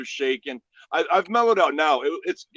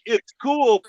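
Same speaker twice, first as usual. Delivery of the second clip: higher, louder scornful repeat; mocking echo; 9 semitones higher, 6 dB louder than usual. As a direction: throw his words back at him, outraged. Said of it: "I'm like".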